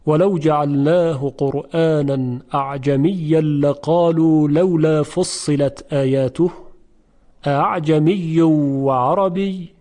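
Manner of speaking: slow measured reading of the verse; slow Quranic recitation. Shown as a demonstration. Teacher recites verse to students, slow and measured. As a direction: recite the verse with care, slowly.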